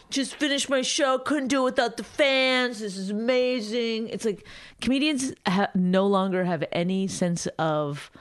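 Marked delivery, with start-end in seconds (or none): 0.1-4.1 hammed-up sincere gratitude voice; mock earnest comedian. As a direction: gush like a self-important comic.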